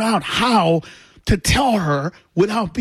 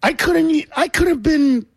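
laughing rant; 7 semitones higher than usual. Retold or imitated. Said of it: "So I said".

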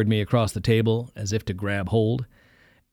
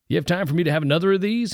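raised and fast; lightly voiced preacher; 8 semitones higher, faster than usual. Preacher eagerly asking the boy for another round, fast. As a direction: ask quickly, eager for another. Marnie asks for another drink.

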